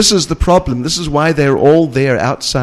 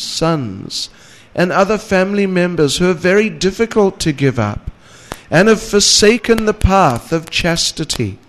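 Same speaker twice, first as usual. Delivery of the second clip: raised, emphatic reading of sacred verse; scripture recitation; 4 semitones higher than usual. A narrator's reading. Lecturer reads devotional verses to listeners, lifted recitation. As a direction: read the verse out with lifted pitch.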